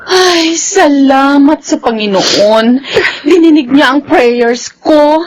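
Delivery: slow, teary thanks; tearful relief. Acted. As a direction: let the gratitude come out crying. Tita thanking God, relieved. (mabagal at naiiyak sa tuwa)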